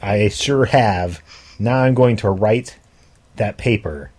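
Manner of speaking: nose clamped shut; pinching nose. Real, not acted. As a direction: clip on the nose. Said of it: "You've put the binder clip on your nose".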